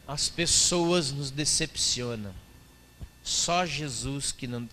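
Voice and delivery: slow, syrupy pious sing-song; pious churchy voice. Retold or imitated. Quoting a religious Facebook post, slow and pious. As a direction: read it like a sanctimonious post. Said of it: "cheio do espírito religioso".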